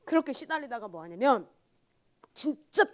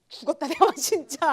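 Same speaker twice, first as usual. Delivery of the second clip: loud laughing half-threat; higher, louder laughing threat; laughing mock threat; 6 semitones higher, 11 dB louder than usual. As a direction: laugh through the joking threat.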